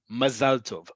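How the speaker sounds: "Mazal tov" with stress on "-zal"; last-syllable stress. Shown as a demonstration. Teacher repeats "Mazal tov" as modelled, ma-ZAL TOV. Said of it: "emphasis is on the last syllable".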